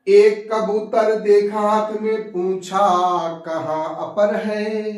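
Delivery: slow, drawn-out poem chant; measured recital of a couplet; verse recitation. Acted. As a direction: stretch each phrase, falling at the close.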